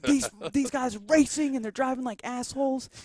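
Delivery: put-on dad tells mom the boys raced; dad complaining. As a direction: gripe like an annoyed father. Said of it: "And he's like".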